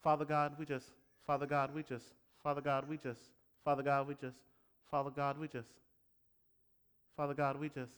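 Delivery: flat mechanical filler prayer; repeating same phrase flatly. Shown as a demonstration. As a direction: drone the same words over and over. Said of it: "It can sound like this".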